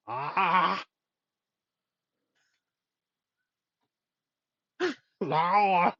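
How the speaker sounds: Arnold-style grunting noises; Arnold grunts. Acted. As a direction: grunt like Arnie between laughs. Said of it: "Just making random Arnold noises".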